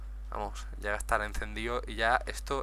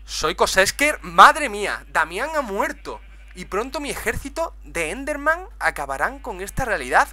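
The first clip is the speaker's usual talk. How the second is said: mustache twirling villain; 7 semitones higher, 5 dB louder than usual. Acted. Voices Kosesker boasting villain lines.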